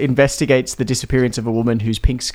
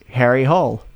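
put-on American accent. Shown as a demonstration. Co-host showing the name in American, American accent. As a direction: say HOLE with an American drawn vowel. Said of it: "if I said this in an American accent".

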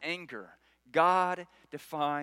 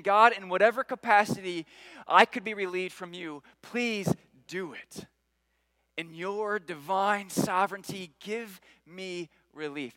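humble plea; 2 semitones higher than usual. Retold or imitated. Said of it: "He's just saying".

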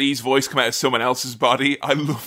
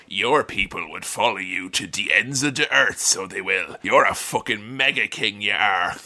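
mock Irish lilt; 7 semitones lower, 4 dB quieter than usual. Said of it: "He's like".

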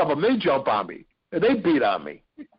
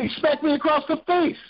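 high-pitched amazed retelling; incredulous high voice; 14 semitones higher than usual. Real, not acted. Storyteller recalls getting smacked across the face, squeaky-high disbelief. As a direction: voice shoots way up in disbelief. Retelling his absurd slap.

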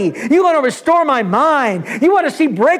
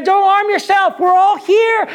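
shouted; 8 semitones higher than usual. Retold or imitated. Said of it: "But Paul shouted".

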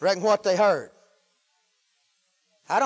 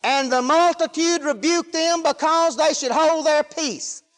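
preacher reading the verse in one raised, sustained run; flowing scripture reading; 6 semitones higher, 3 dB louder, slower than usual. Real, not acted. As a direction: carry the verse straight through.

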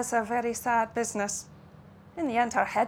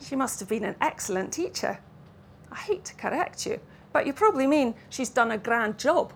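put-on Russian-Scots accent. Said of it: "accent that hovered somewhere between Russian and Lowland Scots".

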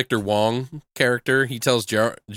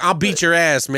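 louder, higher mock threat; commanding tough guy; 5 semitones higher, 4 dB louder than usual. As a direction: threaten like a cocky movie hero. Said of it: "had this commanding presence over".

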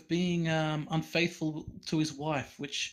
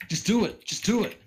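motivational shout; 5 semitones higher, 7 dB louder than usual. Acted. Hyping friend to read it.

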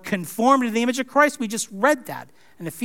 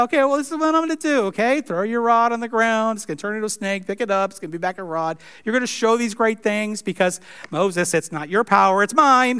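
1 patient God humoring Moses; faster than usual. Retold or imitated. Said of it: "He said".

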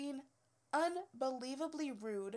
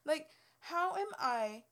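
higher, louder indignant rant; fed-up outburst at the customer; exasperated; 6 semitones higher, 5 dB louder than usual. Real, not acted. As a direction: vent the frustration.

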